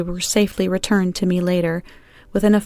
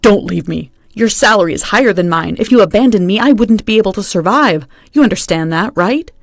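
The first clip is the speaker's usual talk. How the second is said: louder, pushy begging; husband begging his wife not to divorce him, louder plea; 6 dB louder than usual. Acted. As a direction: plead from your knees, mildly insistent. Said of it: "began to beg on his knees".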